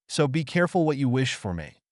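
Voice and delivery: light imitation of an English accent; mock English accent. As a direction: tease in a hint of an English accent. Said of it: "the speaker added the chef's English accent".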